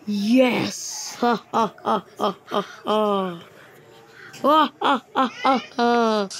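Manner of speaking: gleeful ha-ha laugh after a find; gloating laughter; triumphant laugh. Real, not acted. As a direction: laugh out the win.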